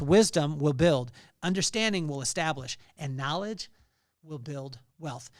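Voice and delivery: slow, weighty reading of the verse; slow emphatic recital. Shown as a demonstration. Preacher driving the verse home to listeners, slow and weighty. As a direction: lean on every word. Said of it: "Think of this".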